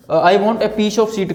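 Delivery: "sheet" said very slowly; slow careful demo. Shown as a demonstration. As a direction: spell out "I want a piece of sheet" slowly. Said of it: "मुझे शीट चाहिए". (धीरे-धीरे साफ़ बोलो)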